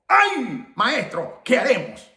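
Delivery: mock cry of dismay, high opening AY; wailed "ay", then falling off; imitated alarmed cry. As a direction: cry out like a panicked servant. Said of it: "voló al grito al cielo".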